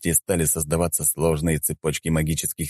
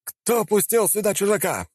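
высокий резкий окрик; кричи на чужака; крик. Acted. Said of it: "послышался крик". (высокий крик)

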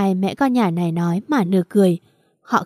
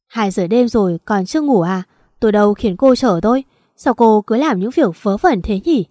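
husband snapping at his wife, a bit louder; gruff late-night reprimand, mildly raised; drunken scolding; 4 dB louder than usual. Acted. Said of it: "Tùng nạt nộ".

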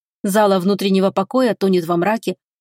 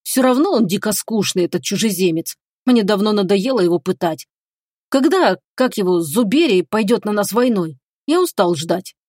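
capricious, whiny tone. Acted. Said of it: "добавляет капризным тоном".

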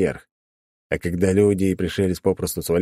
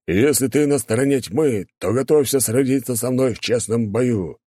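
knight's challenge; 5 semitones higher than usual. Acted.

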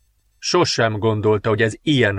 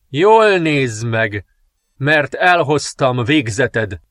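slow menacing threat; much slower than usual. Acted. Princess threatens the king.

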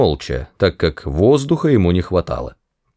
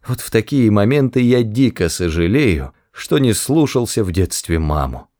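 heartfelt. Acted. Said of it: "проникновенно произнёс Артур".

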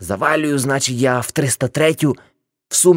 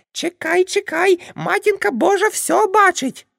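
scolding aunt. Acted. Aunt Nastia yelling at the drunk smokers, high shrill scolding. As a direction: shriek at them like an outraged auntie.

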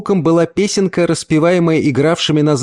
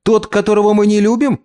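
put-on little girl asking; 8 semitones higher than usual. A narrator's reading. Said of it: "спросила вторая".

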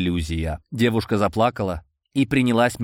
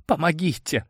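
trembling whisper; 7 semitones higher than usual. A narrator's reading. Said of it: "прошептала дрожащим голосом девушка".

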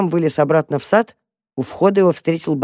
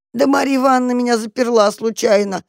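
pleading cat; 8 semitones higher, 3 dB louder than usual. Acted. Trapped cat begs for help.

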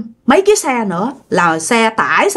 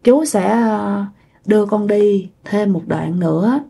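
put-on unhurried, halting older man's voice, slightly softer; slow speech; 3 dB quieter than usual. Shown as a demonstration. The man explains his bike cannot go far, speaking slowly. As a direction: take your time, pause after each phrase. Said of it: "Ổng nói chậm chậm".

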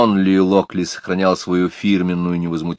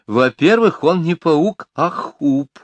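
lady's indignant defence; 6 semitones higher, slower than usual. A narrator's reading. Lady defends her pet.

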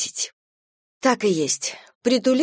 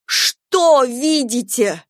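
slow, loud, anguished cry; a mother bursting out in despair; wail; 5 semitones higher, 4 dB louder, much slower than usual. A narrator's reading. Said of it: "завопила Ольга". (Ольга вопит на воспитательницу)

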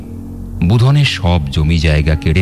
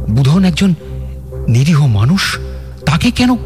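indignant; 10 semitones higher than usual. Acted. Narrator's anger at the killing.

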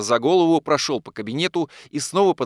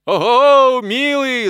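loud, high hooting guffaw; guffawing coachman; 12 semitones higher, 9 dB louder, much slower than usual. A narrator's reading. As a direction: roar it out like a jolly coachman. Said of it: "загоготал Степан". (громко гогоча)

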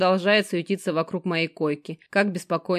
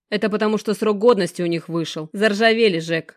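cheerful; 3 semitones higher, 5 dB louder than usual. Acted. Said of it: "охотно и радостно поясняет Геныч".

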